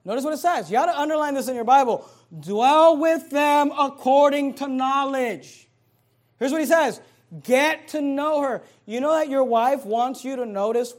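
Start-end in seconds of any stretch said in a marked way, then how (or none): 2.4-5.7 slow, loud, drawn-out reading; preacher's booming slow verse; emphatic scripture. Acted. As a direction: lean hard on every word of the verse.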